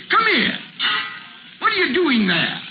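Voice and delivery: harsh boss calling his clerk; sharp summons. Acted. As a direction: call the clerk over sharply.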